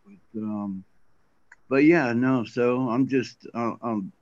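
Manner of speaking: impaired speech from a healing tongue. Real, not acted. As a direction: talk around a sore, stiff tongue. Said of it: "I'm talking a little funny".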